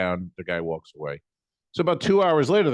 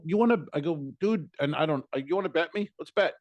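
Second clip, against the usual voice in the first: challenging to a bet; 6 semitones higher, faster than usual. Retold or imitated. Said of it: "And I go".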